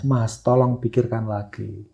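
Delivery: imitating tearful plea. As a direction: plead as if crying, understated. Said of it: "Sambil nangis". (menirukan permohonan sambil menangis)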